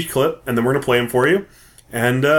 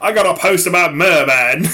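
hammed-up, off-target Australian accent; bad Australian accent; 3 semitones higher than usual. Host showing off to his wife, poor Australian accent. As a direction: attempt Aussie and miss. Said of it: "That's pretty bad".

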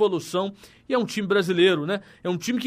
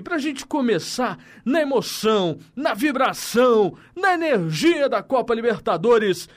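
hyped announcer build; 3 semitones higher than usual. Real, not acted. Hyping up the goal replay.

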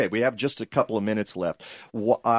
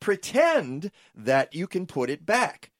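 indignant, higher-pitched disbelief; mad; 7 semitones higher than usual. Real, not acted. Host indignant at the plan letting them take the soil, mad. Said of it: "I can hear it in your voice".

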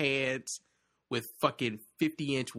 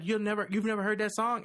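higher, incredulous mimicry of her; imitated disbelief; 8 semitones higher than usual. Boyfriend imitating Ashley shocked he missed a song, incredulous. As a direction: act out her disbelief at a high pitch. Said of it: "she'll like".

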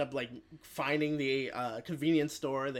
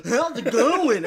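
higher, louder, slow mock country bumpkin; 8 semitones higher, 11 dB louder, slower than usual. Retelling the movie, he voices the country bumpkin character. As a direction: drawl it like a hammed-up hick. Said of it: "like, a country bumpkin".

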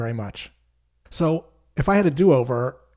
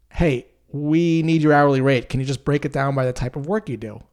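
louder, insistent boss; pushy demand; 5 dB louder than usual. Retold or imitated. Boss pushing the salesperson for an hourly rate, louder. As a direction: press hard for the number. Boss pushes back again.

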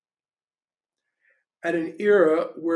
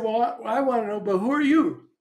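put-on little boy; 6 semitones higher, 5 dB louder than usual. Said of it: "He said".

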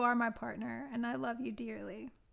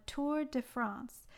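bad French accent; 2 semitones higher, slower than usual. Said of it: "some pretty bad French accent".

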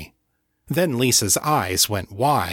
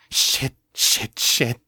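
repeated hissing whisper; hissed; 2 semitones higher, slower than usual. A narrator's reading. Kate panicking at her mother's threat, hissed. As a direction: hiss the curse in panic. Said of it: "Kate hissed".

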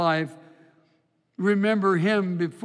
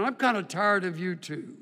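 laughing reply. Retold or imitated. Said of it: "you say in return".

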